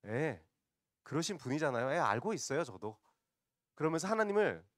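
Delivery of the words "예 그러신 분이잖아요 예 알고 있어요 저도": higher, sarcastic agreement; acted sarcastic huff; mock sarcasm. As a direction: concede it with a mocking edge. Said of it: "요나가 비꼬고 있는 겁니다".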